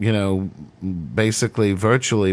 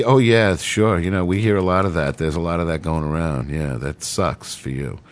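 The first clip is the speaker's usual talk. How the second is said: mock compassionate counselor; 3 semitones lower than usual. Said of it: "with that kind of nod, sort of a compassionate".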